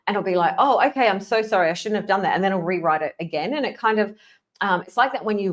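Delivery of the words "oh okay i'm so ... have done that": higher-pitched, eager mock apology. ChatGPT apologizing for rewriting everything, mock contrite. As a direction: play a chatbot falling over itself to apologize. Chatbot voiced apologizing to frustrated user.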